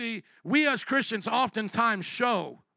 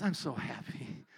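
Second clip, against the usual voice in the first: mock proud parent; 6 semitones lower, 8 dB quieter, slower than usual. Mock proud parent, dirt eating.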